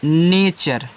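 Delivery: नेचर drawn out slowly as NAY-chur; model pronunciation of nature. Shown as a demonstration. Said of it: "ऐसे नेचर".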